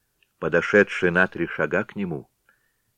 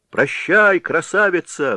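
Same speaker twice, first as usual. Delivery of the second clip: high, loud cheeky cry; shouted farewell; 11 semitones higher, 5 dB louder than usual. A narrator's reading. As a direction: shout it out playfully. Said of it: "вскричал другой". (громкий озорной выкрик)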